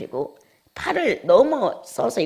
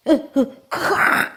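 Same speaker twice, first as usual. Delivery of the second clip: choked gasps bursting into a loud sob; imitated crying outburst; 10 semitones higher, 9 dB louder, much slower than usual. Preacher re-enacting mother's sudden tears, loud imitated sob burst. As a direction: mimic someone suddenly breaking into tears. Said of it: "이러면서 울음이 터졌어요".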